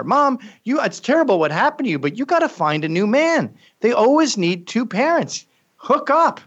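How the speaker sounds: high, coaxing plea; high pleading to mom. Retold or imitated. Pleading to mother.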